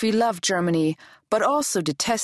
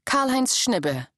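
name read out slowly and higher, as a title; slow heading read; 6 semitones higher, slower than usual. A narrator's reading. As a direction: announce the name like a section heading. Chapter heading name read alone.

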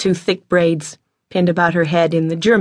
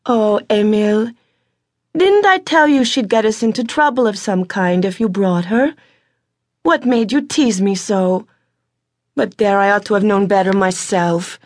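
put-on older sister gently reproaching her brother; Alexandra's voice; 4 semitones higher than usual. A narrator's reading. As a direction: sigh it out, part scolding, part blaming herself. Alexandra chides Emil.

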